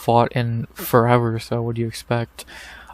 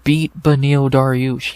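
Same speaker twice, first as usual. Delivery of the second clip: real annoyance; 4 dB louder than usual. Real, not acted. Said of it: "I'm actually getting annoyed now".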